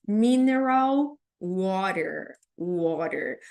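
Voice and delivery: "Mineral water" slow, R and L clear; careful R and L. Shown as a demonstration. Teacher modelling drinks vocabulary: slow, careful R and L. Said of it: "O segredo aqui do mineral é o R e o L".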